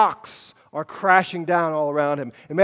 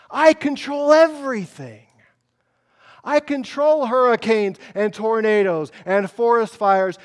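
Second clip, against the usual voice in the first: commanding declaration; 3 semitones higher, 4 dB louder than usual. Retold or imitated. God declaring power to Elijah.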